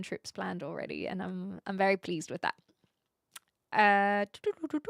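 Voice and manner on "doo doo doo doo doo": high, light doo-doo filler; idle high doo-doo-doo; playful doo-doo noises. Real, not acted. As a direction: doodle up high with the voice. Idle vocal noise while reading chat.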